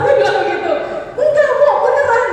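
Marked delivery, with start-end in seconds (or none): 1.2-2.2 high, laughing insistence; doctor laughing as he insists. Retold or imitated. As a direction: laugh through the reassurance. Doctor laughing, insisting she's pregnant.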